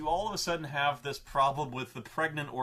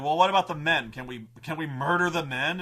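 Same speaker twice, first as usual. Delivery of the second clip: mock question; 6 dB louder than usual. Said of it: "and they're like".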